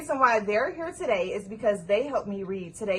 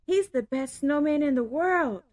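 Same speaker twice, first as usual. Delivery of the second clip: story narration. A narrator's reading. Reads story aloud.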